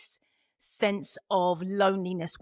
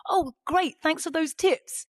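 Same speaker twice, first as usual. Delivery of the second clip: excited listener; 4 semitones higher than usual. Retold or imitated. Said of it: "they're just like".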